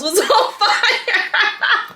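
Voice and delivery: reading through rising laughter, slowed down; can't keep a straight face at the words; laughing while reading. Real, not acted. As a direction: reads it while cracking up. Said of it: "Oh my God, hold up".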